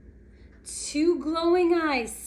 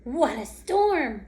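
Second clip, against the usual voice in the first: twittering bird voice; 4 semitones higher, 3 dB louder than usual. Acted. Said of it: "twittles wren".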